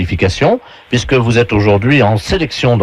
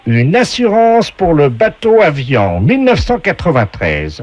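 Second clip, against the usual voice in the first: game show announcer; 4 semitones higher than usual. Acted. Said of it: "la voix du jeu".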